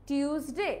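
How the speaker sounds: TIUSDAY said with a hard T, টিউসডে; common pronunciation. Shown as a demonstration. Teacher voicing how many say Tuesday, common hard-T pronunciation. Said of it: "অনেকে কিন্তু টিউস বলে".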